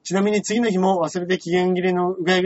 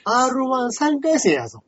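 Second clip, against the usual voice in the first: mock boasting; 5 semitones higher than usual. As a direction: build up a mock-indignant brag. Boastful mock speech about the contest. (大げさに自慢する口調で)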